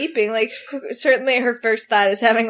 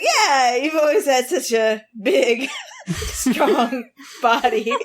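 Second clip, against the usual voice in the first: laughing; slower than usual. Retold or imitated. Uncle doubling down, retold.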